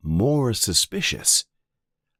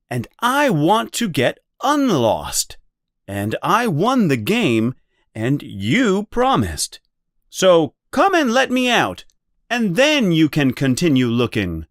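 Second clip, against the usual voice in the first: higher, louder insisting; lightly voiced Bilbo; 9 semitones higher, 4 dB louder than usual. A narrator's reading. Bilbo insisting Gollum keep his promise. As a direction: press the deal firmly.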